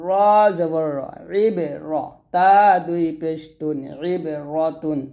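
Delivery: slow sing-song letter-by-letter recital; spelling drill. Shown as a demonstration. Teacher spelling Arabic syllables aloud for students, sing-song drill. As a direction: chant each letter and vowel mark for the class.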